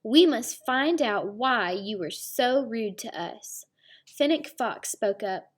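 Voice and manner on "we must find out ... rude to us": stern announcement. Acted. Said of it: "Dog announced".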